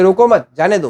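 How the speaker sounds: "रोको मत" as one phrase, then "जाने दो"; pause after MAT. Shown as a demonstration. Teacher explaining let him go, grouped as "रोको मत, जाने दो". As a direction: keep मत attached to रोको. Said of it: "हमने कॉमा का ही तो फर्क किया आगे पीछे".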